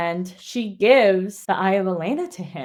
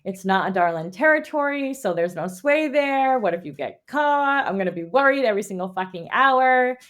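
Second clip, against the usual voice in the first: lightly anxious retelling, pitch jumping up; mock worried pleading; 2 semitones higher than usual. Prince begging heroine to skip the trip, lightly mock-worried. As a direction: plead with her as the fretting friend.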